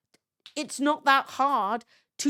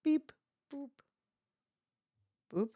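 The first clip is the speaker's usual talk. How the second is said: beep boop noises; 3 semitones higher, 6 dB quieter than usual. Real, not acted. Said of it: "We're gonna go".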